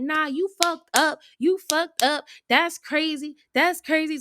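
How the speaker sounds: imitating an indignant telling-off; retold yelling. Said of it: "I'm yelling at him".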